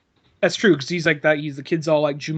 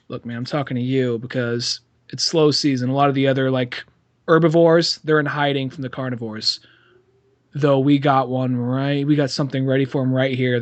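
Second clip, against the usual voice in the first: conniving addict pitch; 5 semitones lower than usual. Acted. Acting Alan confiding plan to Billy.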